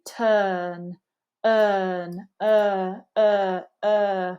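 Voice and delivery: slack, unrounded vowel in "earn"; very lazy vowel. Shown as a demonstration. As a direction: let "uh" hang with neutral lips. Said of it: "We want it to be very lazy".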